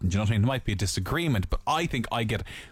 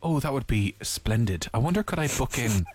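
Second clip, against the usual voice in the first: prim formal politeness. Pretend. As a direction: sound your most polite for a posh hotel. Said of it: "I'll change my tone, not my voice".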